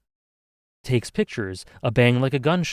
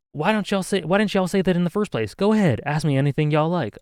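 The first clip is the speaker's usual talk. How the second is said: higher put-on Southern twang; Southern US accent; 5 semitones higher than usual. Camera owner agreeing to questions, Southern accent. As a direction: talk up high in a Southern accent. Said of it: "I can't do an accent".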